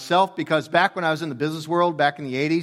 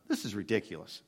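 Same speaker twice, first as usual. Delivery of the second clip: muttered thought; 7 semitones lower, 11 dB quieter than usual. Retold or imitated. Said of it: "I thought".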